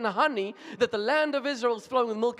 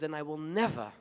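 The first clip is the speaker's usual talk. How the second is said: tearful mother; 6 semitones lower, 7 dB quieter than usual. Retold or imitated. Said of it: "And then tearfully she says".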